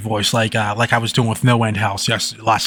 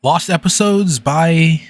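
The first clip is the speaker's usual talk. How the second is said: slow, solemn title announcement; serious title read; 4 semitones higher, slower than usual. Shown as a demonstration. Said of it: "read another story in a serious voice".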